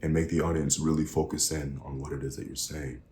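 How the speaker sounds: quieted down. Shown as a demonstration. Coach making the audience focus, quieted down. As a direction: drop softly to make a point. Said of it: "you can quiet down".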